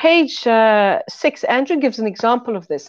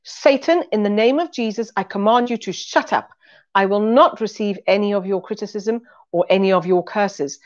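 stern rebuke. Retold or imitated. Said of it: "stuck my finger in her face and said".

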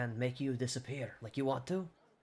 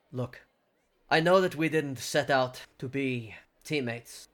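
mildly sarcastic, drawn out slowly; understated sarcasm with deliberate pauses; slower than usual. Acted. Leader addressing reluctant teammates, understated sarcasm. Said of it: "he says it very sarcastically".

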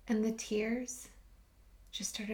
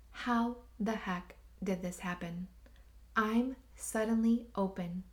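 reciting a prayer. Retold or imitated. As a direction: recite the daily prayer gently to herself. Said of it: "a simple prayer".

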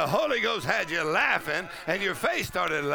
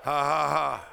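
ecstatic laughing; slower than usual. Real, not acted. Pastor overcome with joy, ecstatic shouting laughter. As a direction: let it burst out whooping.

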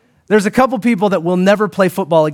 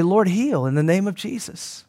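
quoted prayer; 7 dB quieter than usual. Retold or imitated. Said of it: "So I just pray".

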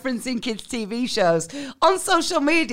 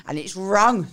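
lower, much softer hurt on camera; mock wounded complaint; 7 semitones lower, 3 dB quieter than usual. Creator tells followers about hateful comments, mock hurt and quiet.

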